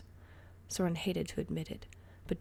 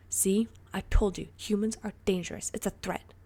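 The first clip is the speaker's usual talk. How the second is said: vindicated; 2 semitones higher, 7 dB louder than usual. Acted. Dorian vindicated, alarmed.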